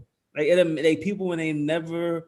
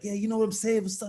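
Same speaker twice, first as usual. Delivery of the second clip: New York hood talk; 5 semitones higher than usual. Retold or imitated. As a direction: overdo it like hood kids talking. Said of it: "we do it with the hand motions".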